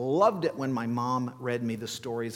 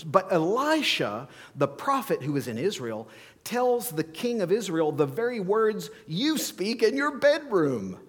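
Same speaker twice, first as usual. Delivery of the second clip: high, loud gossip of a reveal; the officer springs the secret on the king, pitched high; officer revealing Elisha's secret, high and loud; dramatic reveal; 6 semitones higher, 4 dB louder than usual. Acted.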